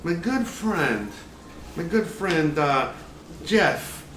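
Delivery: slow, lightly Southern cooking-show voice; hint of a Southern chef bragging; Southern drawl. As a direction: spin a tall tale in a mild Southern drawl. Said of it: "southern drawl".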